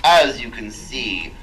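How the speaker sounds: robotic vocoder speech. Acted. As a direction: speak through a vocoder. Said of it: "speak through this vocorder".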